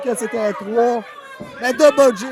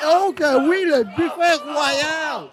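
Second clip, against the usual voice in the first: excited catchphrase; 4 semitones higher, slower than usual. Acted. Live wrestling play-by-play.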